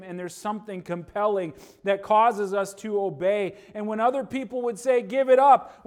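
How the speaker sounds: loud, high revival preaching; preaching at full force. Acted. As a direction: drive it home to the congregation. Preaching climax about obeying.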